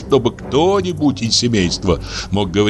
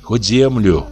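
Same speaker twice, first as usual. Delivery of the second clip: higher, coaxing plea of a kindly stepmother; pleading old woman; 4 semitones higher than usual. Acted. Varvara coaxing the old man about the grandson, worried plea. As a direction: urge him gently, worried for the child.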